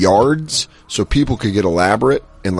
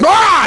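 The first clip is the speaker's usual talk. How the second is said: high, loud imitated scare scream; mock scream; 5 dB louder than usual. Roommate jumping out at the kid, loud mock scream. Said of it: "my roommate Morgan was like".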